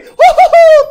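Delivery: very high, loud laughing hoot; shrieking whoop of joy; victory whoop. Real, not acted. Player celebrating a lucky hit, victory whoop.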